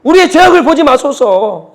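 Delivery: acting out Moses' earnest petition; intercessory prayer. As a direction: plead earnestly with God, lifting the voice. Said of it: "이렇게 기도하는 거 아닙니까".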